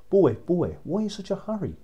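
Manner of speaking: put-on loud call to a passing boy. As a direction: call through the cell bars to catch him. Soldier calls from prison cell.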